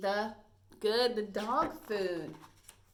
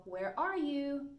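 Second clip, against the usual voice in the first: slow call; 6 semitones higher, slower than usual. Shown as a demonstration. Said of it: "All right, so".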